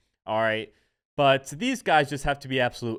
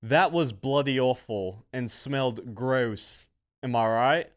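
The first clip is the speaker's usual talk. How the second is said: put-on Australian accent. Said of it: "I don't know if that's Australian".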